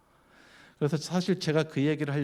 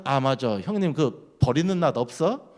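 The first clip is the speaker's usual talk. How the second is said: mock afterthought, drawn out slowly; feigned sudden recollection; 4 dB louder than usual. Chungcheong man finally asking his neighbour for a sickle, mock casual afterthought. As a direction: act as if it only just occurred to you. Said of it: "갑자기 생각난 척하면서".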